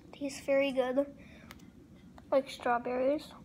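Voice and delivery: snack stick between teeth; talking through full mouth; chewing while talking. Real, not acted. Seen 0: Stick held between lips while talking, then hand pushing food in.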